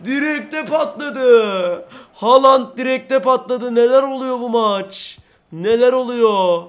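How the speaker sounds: slow, stretched marvelling; amazed. Real, not acted. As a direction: savour every word in disbelief. Amazed at shot power.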